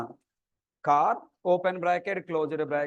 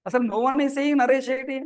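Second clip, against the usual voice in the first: higher, fast, amused protest; excited; 5 semitones higher, much faster than usual. Real, not acted. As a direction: rattle it off, half laughing. Teacher scoffs at student answer.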